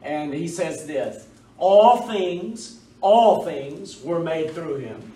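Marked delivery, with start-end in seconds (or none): 1.6-5.1 ALL THINGS leaned on firmly, then repeated; emphatic. Retold or imitated. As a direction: stress "All things" both times, stating it as certain. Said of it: "stating most emphatically".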